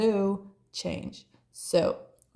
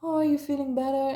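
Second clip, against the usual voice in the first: quick, higher, sing-song concern; mock caring voice; 6 semitones higher, much faster than usual. Friend mimicking his fake concern. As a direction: imitate him asking sweetly. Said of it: "he was like".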